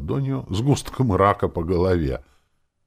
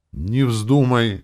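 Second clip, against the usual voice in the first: slow, higher, louder cry of protest; exclaiming; 6 semitones higher, 6 dB louder, much slower than usual. A narrator's reading. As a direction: forbid her outright, pleading loud. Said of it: "воскликнул я". (медленный громкий возглас, выше)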